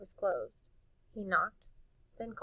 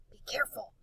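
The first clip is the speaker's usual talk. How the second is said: hushed, breathy warning; boy whispering a warning to his friend; whispered warning; 3 semitones higher, faster than usual. Acted. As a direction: whisper it as a caution. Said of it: "Wendell warned".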